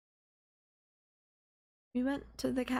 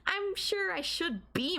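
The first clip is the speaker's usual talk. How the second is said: giddy laugh; 8 semitones higher than usual. Acted. Girlfriend giddy over his violence.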